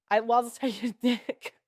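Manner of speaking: slow quote broken by a laugh; laughing mock quote. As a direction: crack up while imitating her. Mocking retold quote, breaks into laughter.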